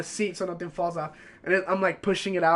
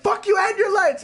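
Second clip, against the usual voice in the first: louder, higher yelled comeback; mock shout; 12 semitones higher, 5 dB louder than usual. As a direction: shout it back at the teacher. His retort yelled back.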